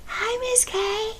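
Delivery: lightly voiced young clerk greeting; young man's greeting. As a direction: mimic the young clerk's cheerful hi. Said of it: "And he goes".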